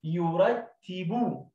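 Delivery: each word drawn out very slow; teacher stretching يرتي; slow blending. Shown as a demonstration. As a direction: blend syllables slowly. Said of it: "زي كلمة يو لوحدها".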